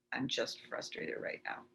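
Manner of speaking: very soft, nearly whispered admission; quiet self-talk. Shown as a demonstration. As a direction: murmur it privately to yourself. Demonstrates private tapping self-talk.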